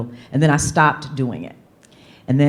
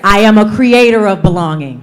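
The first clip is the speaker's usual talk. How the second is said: said with your chest; 4 semitones higher, 9 dB louder than usual. Shown as a demonstration. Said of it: "Say it with your chest".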